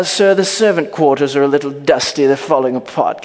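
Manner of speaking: put-on British butler voice; British accent. Servant reporting dusty quarters, British accent. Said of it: "but he has a British accent".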